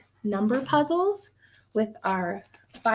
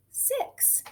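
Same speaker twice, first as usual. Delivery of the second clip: whisper; 13 semitones higher, 8 dB quieter than usual. Acted. Counting reveals the total.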